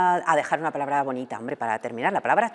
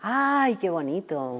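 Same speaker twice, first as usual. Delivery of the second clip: charmed delight; 4 semitones higher, much slower than usual. Real, not acted. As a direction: coo with delight. Delighted by the word's meaning. (encantada, con ternura)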